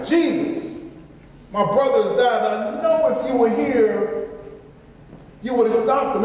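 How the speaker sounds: a sister begging, half in tears; pleading sister. Retold or imitated.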